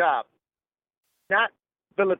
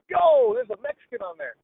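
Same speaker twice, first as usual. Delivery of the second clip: retold excitement; 9 semitones higher than usual. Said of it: "I'm like".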